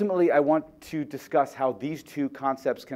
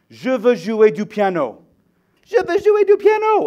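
put-on very loud, high, rising, child-like screaming tantrum; 10 semitones higher, 8 dB louder than usual. Retelling a seven-year-old's meltdown over piano lessons: imitating a child screaming. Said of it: "she's screaming at the top of her lungs".

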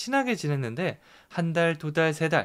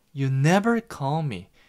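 heavy, emotional stress leaning hard on never; 4 dB louder than usual. Practicing an english sentence in a lesson, emotional stress on never. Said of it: "never에 좀 더 감정을 넣고 강세를 넣어서".

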